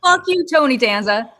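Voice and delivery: chasing the man down the street, screaming furiously; furious shout. Retold or imitated. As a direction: scream it down the street after him. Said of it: "I lose my shit".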